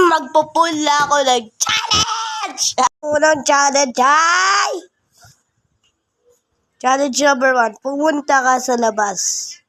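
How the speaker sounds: loud, excited announcement; excited announcing. Real, not acted. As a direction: call out the challenge with excitement.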